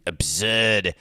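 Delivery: a bad, hammed-up Boston accent; Charles Emerson Winchester. Host quoting a TV character to mock fans, hammed Boston accent. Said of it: "as Charles Emerson Winchester would say".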